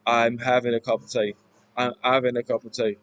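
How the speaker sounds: lightly done East London accent, "tea" as tay; mild Cockney accent. Shown as a demonstration. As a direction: attempt Cockney through the whole phrase. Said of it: "East London accent".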